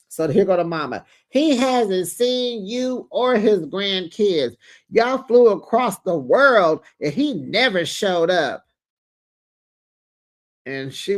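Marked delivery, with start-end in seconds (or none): 1.3-8.6 slow, emphatic mock scolding; indignant tirade. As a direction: lay out the grievance word by word, acting outraged. Acted mother's tirade.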